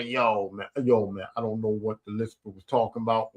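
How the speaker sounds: lightly voiced, failed impression of an ex-player; Charles Barkley impression. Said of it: "I was trying to do a Charles Barkley impression".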